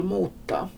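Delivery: mota with long u and held t; long vowel and consonant. Shown as a demonstration. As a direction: stretch both vowel and t in mota. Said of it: "vokaler och konsonanter är långa".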